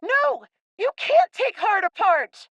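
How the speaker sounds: put-on a boy refusing to give up his friend; upset protest.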